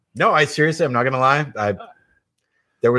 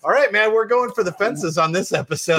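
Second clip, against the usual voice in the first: pumped-up retelling; 4 semitones higher than usual. Retold or imitated. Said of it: "I was like".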